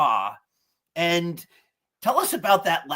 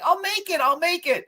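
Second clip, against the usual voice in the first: imitating crying son; 13 semitones higher than usual. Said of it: "he's crying like".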